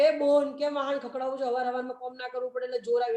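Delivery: quick, lightly voiced rustic Gujarati mother-in-law, mock scolding; a hint of a nagging village mother-in-law, fast and teasing. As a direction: rattle it off like a village saas scolding her bahu at dawn. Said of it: "આપણી દેશી સાસુની જેમ".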